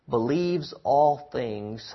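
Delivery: "believes all things" stretched out slowly and solemnly; slow reverent "believes all things"; slow scripture reading. Shown as a demonstration. Verse read slowly.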